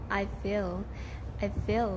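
I feel, pitch going up on feel; I feel with a rising tune; rise on feel. Shown as a demonstration. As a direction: lift your voice on feel. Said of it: "Mình sẽ lên giọng ở đây này".

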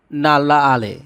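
নাল্লা with a held double l and long a; Tamil phrase modelled. Shown as a demonstration. Teacher showing viewers Tamil for gentleman, careful pronunciation. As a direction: hold the ল্ল in নাল্লা. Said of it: "Tamil হবে".

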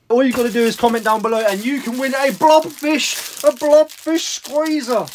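high, silly put-on voice. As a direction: pitch it up like a goofy advert. Announcing blobfish giveaway.

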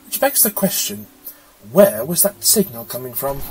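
a wry quip at a dull planet; the Doctor, wry. A narrator's reading.

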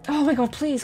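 high-pitched begging for mercy; desperate pleading. Real, not acted. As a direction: cry out NO then plead, each please drawn. Begs game enemy for life.

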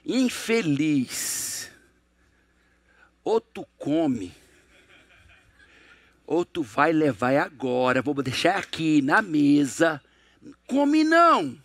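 low, very slow menacing threat; threatening parent. Acted. Parent threatening the child who won't eat, low, slow menace.

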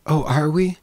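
lightly voiced bride, politely surprised; feigned surprise. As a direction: react as if it were news to you. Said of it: "as if she had not been aware of it".

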